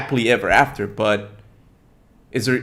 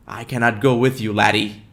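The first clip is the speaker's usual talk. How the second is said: lightly attempted Scottish accent; amateur Scottish lilt at normal pitch. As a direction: try on a mild Scottish accent. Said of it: "I love that Scottish accent".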